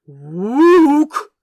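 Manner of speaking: loud, high ape yelp; a frightened orangutan call; startled ape hoot. Acted. The orangutan yelps at the revealed angel, loud and high.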